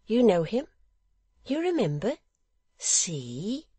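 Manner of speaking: high, loud, slow innocent; high, excitable simple son; Barnaby, eager simpleton. A narrator's reading. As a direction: protest and boast in a high childlike voice.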